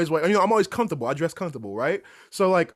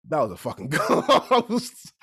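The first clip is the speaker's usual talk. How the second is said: laughing; 3 dB louder, slower than usual. Retold or imitated. Roommate declares it was a ghost.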